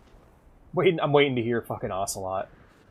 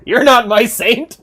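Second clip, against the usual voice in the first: high, loud, slow shout of betrayal; drawn-out furious mock cry; mock outraged yell; 12 semitones higher, 12 dB louder, slower than usual. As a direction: bellow it like a wronged preacher. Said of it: "and he's like".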